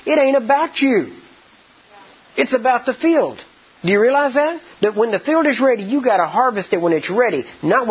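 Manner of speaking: fervent rising rebuke; preaching rebuke. Real, not acted. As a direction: lift the voice and drive it home to the congregation. Preacher rebukes the waiting congregation.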